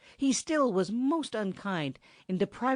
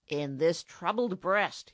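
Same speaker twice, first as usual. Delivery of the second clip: roaring; slower than usual. Acted. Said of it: "he roared".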